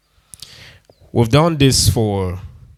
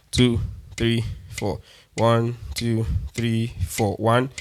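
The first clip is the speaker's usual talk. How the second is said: counting the beat; 7 dB quieter, slower than usual. Shown as a demonstration. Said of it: "Now see what I mean by four".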